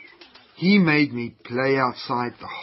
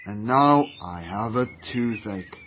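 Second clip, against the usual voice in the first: groaning in pain; 5 semitones lower, 3 dB quieter, slower than usual. Acted. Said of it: "You're groaning as if you have a toothache".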